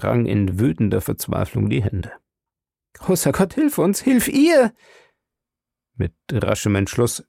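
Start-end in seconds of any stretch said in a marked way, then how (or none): 2.9-4.7 high, loud, despairing cry to God; desperate plea. A narrator's reading. Husband on his knees crying to God, desperate. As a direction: pray out loud in anguish.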